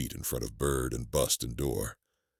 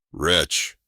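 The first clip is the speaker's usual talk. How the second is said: loud anguished cry; cried out; 3 semitones higher, 6 dB louder than usual. A narrator's reading. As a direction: cry out in torment. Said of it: "I cried".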